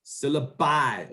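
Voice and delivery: "Syllabi" slowly, ending in long "-bye"; drawn-out plural. Shown as a demonstration. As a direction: stretch the end of "Syllabi" like bye. Teacher models plural after student.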